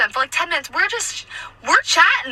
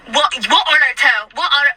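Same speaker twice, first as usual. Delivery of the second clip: curt, punchy retold demand; rude customer; 4 dB louder than usual. Customer to server with nine tables, rudely. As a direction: imitate a rude diner demanding attention. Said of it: "just so rude".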